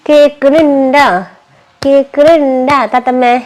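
sing-song teasing. Real, not acted. Mother teasing child, drawn out.

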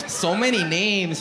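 slow, drawn-out mock of a lame excuse; mocking fake excuse. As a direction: stretch "So many names" out slowly like a bad liar. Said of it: "That sounded fake as fuck".

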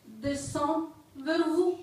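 measured poem recital with long pauses; poetry reading. Acted. Poet reading to an audience, poetry reading. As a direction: recite line by line, letting each image hang. Reads own poem aloud.

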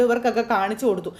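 usual speaking voice

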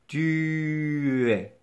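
"Tu es" drawn out in one unbroken glide; enchaînement without pause. Shown as a demonstration. Teacher proving there is no pause, linked demonstration. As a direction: stretch "Tu" straight into "es". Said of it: "Je ne fais pas de pause entre tu et est".

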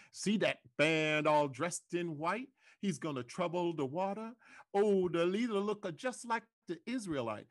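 THAT and THE with D for TH, WATER as wata; THE said duh, final R dropped in WATER and LEADER; spiritual dialect. Shown as a demonstration. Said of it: "sometimes dialect, like in".

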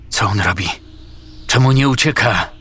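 alarmed shout at a frozen comrade. A narrator's reading. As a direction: call out in disbelief. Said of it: "krzyknął Lestko".

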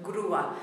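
"grúa" as GROO-a, two syllables; teacher's two-syllable "grúa"; accent on U. Shown as a demonstration. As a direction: stress the u in "grúa" and keep the a separate. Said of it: "we've got the accent on the U".

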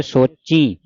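ਸੋਚੀ with a nasal final ee; nasalized ending. Shown as a demonstration. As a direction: add a bindi nasal to ਸੋਚੀ. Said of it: "ਕਈ ਸੰਗਤਾਂ ਪੜ੍ਹ ਜਾਂਦੀਆਂ". (ਸੋਚੀ ਬਿੰਦੀ ਨਾਲ)

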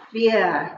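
weer with a v-like W, pitched low; Afrikaans W. Shown as a demonstration. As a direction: demonstrate weer, its W sounded as v. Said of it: "sounds different in Afrikaans".

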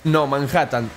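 ordinary talk

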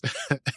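brief chuckle between sentences; short amused laugh. Real, not acted. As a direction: chuckle at your own retelling. Amused by own recap.

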